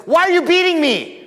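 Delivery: high, loud strained donkey voice; talking donkey. A narrator's reading. Donkey crying out to the prophet beating it, high and loud. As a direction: squeal it out as the beaten donkey. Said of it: "And the donkey says".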